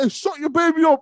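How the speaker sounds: loud, high mock yell through laughter; high-pitched, laughing outburst; mock telling-off. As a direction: yell it as a joke, cracking up. Acting out telling off a parent.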